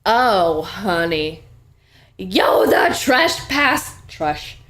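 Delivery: slow, drawn-out theatrical yell; imitated yell. Cricket yells at the trespasser, imitated yell. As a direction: call it out slowly, hammed-up. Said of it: "And Cricket yells".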